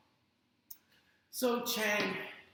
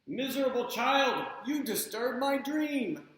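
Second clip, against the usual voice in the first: put-on grumpy old man; 4 semitones higher, 5 dB louder than usual.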